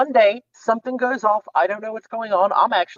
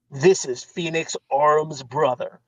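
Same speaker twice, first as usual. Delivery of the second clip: lower, slow and ominous, in a lightly put-on voice; creepy message voice; 5 semitones lower, slower than usual. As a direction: read it like a dark cult greeting, slowly.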